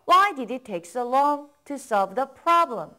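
slow, one smooth phrase; slow model reading, in one go. Shown as a demonstration. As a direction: read it whole, slowly, for copying. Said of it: "따라 읽어보세요".

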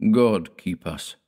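slow, solemn prayer; slow, grave invocation. Acted. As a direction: say it slowly like a grave blessing. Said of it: "Dord said solemnly".

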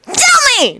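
high, insistent demand; insistent little outburst. Acted. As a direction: demand an answer. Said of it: "Naruto demanded".

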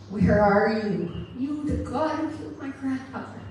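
anguished plea to God. Retold or imitated. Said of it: "I said, God".

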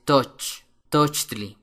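"tochtli" opening like "touch", then tli; like English touch. Shown as a demonstration. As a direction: say "touch", then "tochtli" with the same toch sound. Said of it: "como la palabra tocar en inglés".

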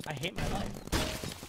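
drawn-out, voiceless mock misery; hushed, dragged-out imitation of self-pity; imitating her despair. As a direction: mimic a gamer's defeated groan, very slowly. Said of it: "I know how she's thinking right now".

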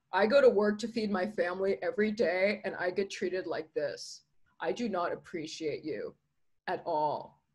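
hurt, sinking reproach; aggrieved employee. Acted. Weary employee confronts protesters.

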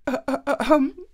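high stalling hums; hesitant ums. A narrator's reading. Princess stalling before the suitor, high ums. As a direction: stall while thinking up a task. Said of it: "she said".

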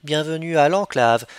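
steadier, flatter robot greeting; deadpan meme voice. Pretend. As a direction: deliver it like a cool computer. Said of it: "une meilleure voix de robot que ça".

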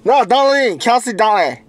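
talking through a mouth guard; slurred words around a mouth guard. Real, not acted. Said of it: "with this mouth guard in my mouth".

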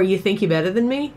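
restrained Boston accent challenge; lightly put-on Boston accent. Shown as a demonstration. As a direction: try out a cocky Boston accent. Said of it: "I try to get into it with".

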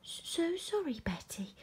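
high-pitched sorry, dropping on the name; cheerful apology. A narrator's reading. George apologises to Betty, smiling and high. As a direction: apologise with a smile. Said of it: "said George with a smile".

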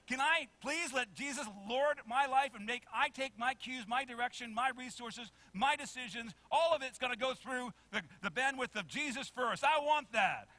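high, loud, eager pleading; acted eagerness. Imagined believer begging to put Jesus first, acted eagerness. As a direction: gush with acted enthusiasm.

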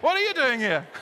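rude. Shown as a demonstration. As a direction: challenge a neighbor with playful rudeness. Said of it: "and repeat the question".

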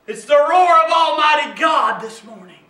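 emphatic, driving exhortation; rally the congregation; preaching at full force. Real, not acted.

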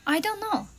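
squirrel voice. Acted. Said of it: "said a squirrel".

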